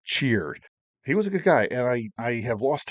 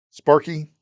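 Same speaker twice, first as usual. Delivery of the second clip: louder, emphatic call of a name; retold chief calling out; 4 semitones higher, 7 dB louder than usual. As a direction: bark the nickname to get his attention. Chief calls him out.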